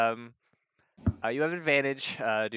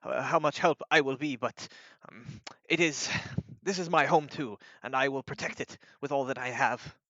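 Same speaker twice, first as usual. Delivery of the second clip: hesitant, slightly raised voice, stumbling at first; lightly acted shyness growing into resolve; shy; 3 semitones higher than usual. Shy companion pledging to protect home, hesitant then steadier. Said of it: "shyly nods and says".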